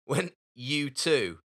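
"U two" slowed into separate words; careful correction. Real, not acted. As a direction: spell out "U two" slowly as two words. Correcting YouTube slip to band name.

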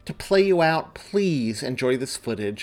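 bright, polished broadcast read; news anchor sign-off. Acted. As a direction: sign off the holiday segment like a TV reporter. The speaker reads her news sign-off.

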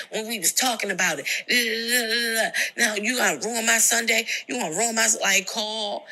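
retelling his heated outburst at her; mock angry rant. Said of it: "Why are you yelling?".

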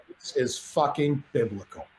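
low, slow and hushed in awe; awed hush. Retold or imitated. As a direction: savor it quietly. Awed line on balcony.

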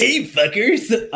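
high, stretched-out call; sing-out comic holler; mock yell. Host repeats Sang's entrance, drawn-out mock yell. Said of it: "and yells".

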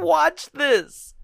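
high, emphatic tagline read; horror trailer voice. Acted. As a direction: punch WATCH like a trailer. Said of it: "It just says".

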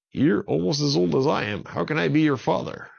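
a father who can't believe his eyes; startled dad. A narrator's reading.

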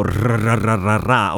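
"ra ra ra" with heavily trilled R; effortful rolled R. Shown as a demonstration. Showing listeners a difficult sound to hum, trilled "ra". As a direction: roll every R in "ra ra ra". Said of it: "diventa più difficile".

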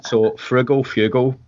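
Frugal Fugal, slowly, both r and no r; slow tongue twister. Shown as a demonstration. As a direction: Frugal Fugal drawn out carefully. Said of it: "which is hard to say in a Scottish accent".

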